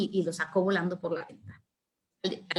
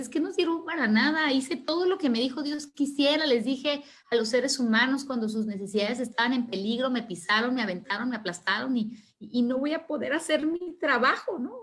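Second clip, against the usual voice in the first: lightly acted whining, higher at the start and end; mock tearful complaint; 4 semitones higher than usual. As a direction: pour out a hurt complaint, half-playing it. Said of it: "¿Por qué estás chillando".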